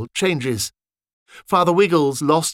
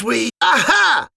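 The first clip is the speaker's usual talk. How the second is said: much higher, loud triumphant shout; yell; 11 semitones higher, 5 dB louder, slower than usual. Acted. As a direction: leap in with a cry. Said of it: "yelled another soldier".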